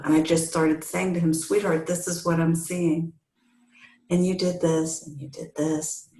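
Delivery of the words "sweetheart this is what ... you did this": soft, gentle and caring; loving. Retold or imitated. Wife gently telling her relapsing husband what she sees, loving. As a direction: tell him kindly, softly. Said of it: "very lovingly".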